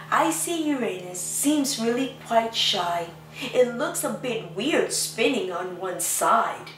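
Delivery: gentle storybook reading voice; lightly sing-song picture book reading; reading to children. Acted. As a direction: read the rhyme to little ones. Reads picture book aloud.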